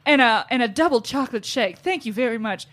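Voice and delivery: lightly Southern drive-thru order; imitated Southern accent. Mom completing her drive-thru order, imitated Southern accent. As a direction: finish the order with a Southern lilt. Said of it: "ordering in this Southern accent".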